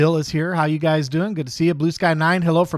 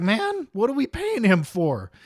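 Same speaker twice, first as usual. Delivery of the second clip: higher, drawn-out mock griping; mock viewer complaint; 8 semitones higher, slower than usual. Viewers questioning what they pay the host for, mock complaint. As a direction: imitate exasperated viewers, pitched up and slow. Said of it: "you guys are gonna be like".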